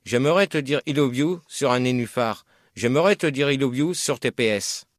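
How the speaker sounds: poème récité. Shown as a demonstration. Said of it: "je vais vous lire un poème".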